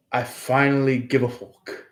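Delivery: a light stab at an Irish brogue on "I finally give a fuck"; understated Scottish or Irish lilt, half-joking; attempted Irish accent. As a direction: try the line as a Celtic, Irish-sounding speaker. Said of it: "I'm gonna try to bring out my best, uh, impression of, uh, the Celtic".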